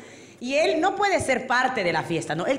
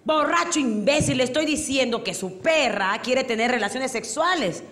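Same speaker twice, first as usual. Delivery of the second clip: exasperated insult, then laborious explanation; mock fed-up officer; angry policeman. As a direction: lose patience with a hopeless drunk. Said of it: "ya se enojó".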